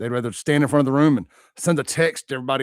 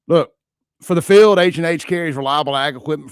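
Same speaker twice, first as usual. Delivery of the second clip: booming announcer; 4 semitones higher, 7 dB louder than usual. Shown as a demonstration. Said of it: "rodeo announcer voice".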